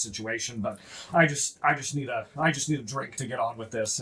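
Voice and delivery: lightly voiced low, weary dwarf; a hint of a gruff, frazzled dwarf. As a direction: grumble like a tired overworked dwarf. He's a kind of gruff guy.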